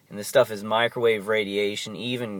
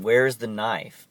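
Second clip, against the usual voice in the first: retold yelling; 4 dB louder, slower than usual. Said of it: "the guy was yelling".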